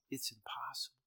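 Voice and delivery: whispered, almost voiceless quote; hushed despair. Acted. Voicing a listener who doubts their prayer, hushed. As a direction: say it under your breath.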